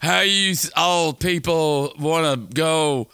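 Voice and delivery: high, slow mock Southern drawl; gay Southern voice. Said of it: "what a gay Southern".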